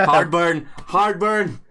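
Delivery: rasping after choking; throat burning, laughing through it. Real, not acted. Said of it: "that went down the wrong hole".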